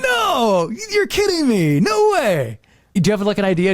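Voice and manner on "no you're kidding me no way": high shouted disbelief; stunned disbelief. Retold or imitated. Learning who narrated the Hulk, high stunned shout. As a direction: yelp out the shock of finding out. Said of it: "I was like".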